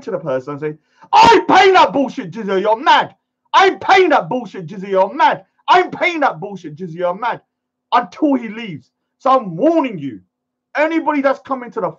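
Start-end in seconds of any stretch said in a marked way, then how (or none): 1.1-7.4 defiant retort. Acted. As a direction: throw it back defiantly on repeat. Acts out his defiant repeated retort.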